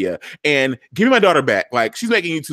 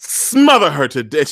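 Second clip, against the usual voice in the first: a hint of a lower, menacing threat; menacing villain; 3 semitones lower than usual. Papa Pope threatening Quinn over the baby, lightly menacing. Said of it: "And he's like".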